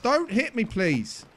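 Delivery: high, loud panicked plea; panicked yelling. Real, not acted. Begging the players to stop hitting him, panicked yell. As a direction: shout for help under attack. Being punched, pleading.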